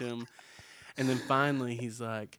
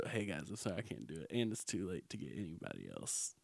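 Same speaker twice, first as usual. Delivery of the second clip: sheepish cancel call; 7 semitones lower, 11 dB quieter, faster than usual. Pretend. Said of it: "Could you imagine if I just".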